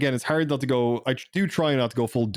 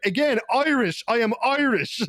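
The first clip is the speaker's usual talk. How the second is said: much higher, mock-emphatic insistence; retold retort; 12 semitones higher, slower than usual. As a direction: hammer it home like it's obvious. Retold reply to the soldier.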